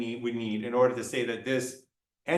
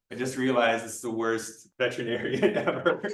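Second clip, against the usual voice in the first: breaking into a laugh at the end; amused laughing; 2 semitones lower than usual. Real, not acted. Lecturer mocking his own veterinarian act, amused laughing. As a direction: laugh while owning up to a silly act. Cracks up at own role-play.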